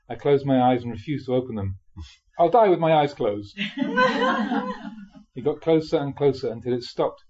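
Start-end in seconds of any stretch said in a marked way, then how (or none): 2.4-3.6 laughing. Retold or imitated. Retelling terror, laughing at himself. 3.6-5.0 a sudden high burst of laughter. Real, not acted. Monk laughing at his younger self's fear, high laugh.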